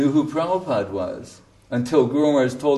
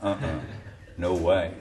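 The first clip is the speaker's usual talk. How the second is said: mock Australian; 7 semitones lower, 7 dB quieter than usual. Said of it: "They go".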